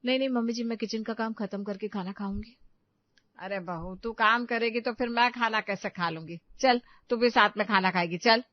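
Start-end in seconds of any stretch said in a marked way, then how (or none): 3.4-8.4 lightly sweetened mother-in-law's insistence; affectionate coaxing. Acted. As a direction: coax her lovingly to join the meal. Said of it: "तुम्हारी सास इतने प्यार से कह रही है". (प्यार से मनाते हुए)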